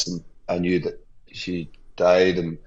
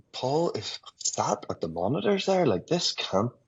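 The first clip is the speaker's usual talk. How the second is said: fighting back tears while speaking; choking up; 5 semitones higher, 5 dB quieter than usual. Real, not acted. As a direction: voice catching, quieter. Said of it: "I'm choking up now".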